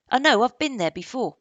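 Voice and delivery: put-on high, loud boastful boy; Indian boy's voice. Indian boy tells Barney he knows the roof, high and loud. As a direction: voice the boy showing off. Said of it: "said the Indian".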